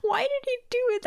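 high incredulous question. Real, not acted. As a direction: ask it in disbelief. Reader incredulous.

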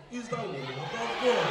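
slow, low solemn pastor voice; pastor drawl. Acted. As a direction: stretch it out like a solemn preacher. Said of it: "which church when the pastor they sound like this".

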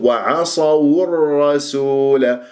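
وعصوا الرسول slow, waw clearly rounded. Shown as a demonstration. Teacher demonstrates for students, rounded waw in وعصوا. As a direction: draw out وعصوا with a full u on waw. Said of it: "والواو مضمومة".

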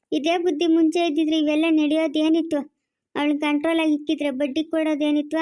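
loud, forceful reproach. Acted. Relative scolding a man for beating her, loud reproach.

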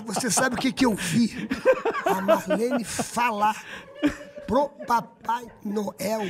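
very slow, laughing through it; dramatic slow buildup. Retold or imitated. The speaker telling a TV host the scandal, very slow with laughter. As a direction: stretch each word for suspense.

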